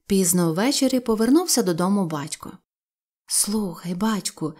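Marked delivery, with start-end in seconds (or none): 3.3-4.5 softer, anxious call; worried hush. Acted. Wife worriedly telling her husband, much softer. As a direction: draw him aside quietly. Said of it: "сказала жінка".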